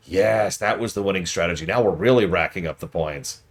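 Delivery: lightly hammed-up fake streamer hype; mock shoutcaster. A hint of a mobile ad streamer shouting over fake gameplay. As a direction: rattle it off like a fake hype caster. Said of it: "they're shoutcasting it".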